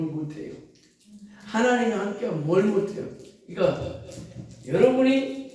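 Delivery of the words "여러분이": sudden high call to the congregation. Real, not acted. Preacher calling out to the congregation, loud and high. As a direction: lift the voice to wake the room.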